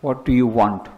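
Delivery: low, even-toned question; calm, low-pitched reply to a self-important visitor; unimpressed question. Retold or imitated. Swamiji's unimpressed reply, retold.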